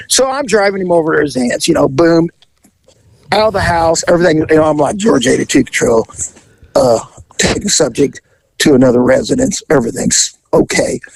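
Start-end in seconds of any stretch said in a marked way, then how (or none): 5.0-11.0 low, matter-of-fact patrol report; police radio call. Retold or imitated. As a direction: imitate an officer calling in to dispatch.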